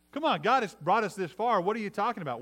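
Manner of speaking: acted-out incredulous pushback; urging disagreement. Joshua and Caleb answering the frightened spies, urgent disagreement.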